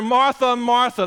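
Jesus calling. Retold or imitated. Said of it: "The Lord answered".

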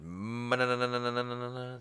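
high, monotone "na-na-na" stutter; imitated babbling noise. The speaker reading Caddyshack to the kids, babbling imitation.

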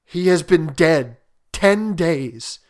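loud, troubled, faltering appeal; shaking voice. A narrator's reading. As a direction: plead in horror, breaking off mid-thought. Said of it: "and his voice shook".

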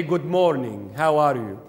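polite formal greeting, a little low. Acted. Teacher showing formal English to listeners, formal. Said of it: "when you speak formally to someone".

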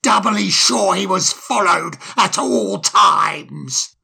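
slow, mock-polite sarcasm; sarcastic. A narrator's reading. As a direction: needle the owl with sarcasm. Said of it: "in the same sarcastic manner".

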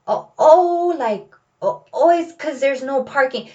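put-on high, flustered little-boy stammer; frazzled. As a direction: fumble like a scolded kid. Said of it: "becomes frazzled".

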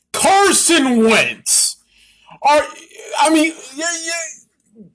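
drawn-out, disbelieving name; incredulous. Real, not acted. Vlogger repeating the quarterback's name, slow and incredulous.

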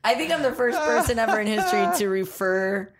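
talking through laughter; can barely get it out for laughing. Real, not acted. Cracking up at her own joke, laughing through it.

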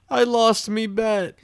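high, loud, slow mock wail; Mister Krabs wailing. Imitating the crab walking off crying, high mock wail. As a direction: bawl it like a cartoon crab.

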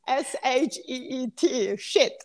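"shit" with a short i for sheet; Polish accent sheet. Shown as a demonstration. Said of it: "my accent is crazy, so that's what I say".

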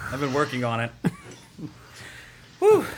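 panting after the effort; breathless, catching breath. Real, not acted. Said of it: "Let me catch my breath".

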